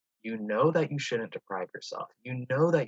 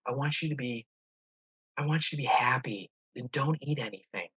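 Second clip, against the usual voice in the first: manipulative inner voice; 4 semitones higher than usual. Shown as a demonstration. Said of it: "this thing over here is this voice".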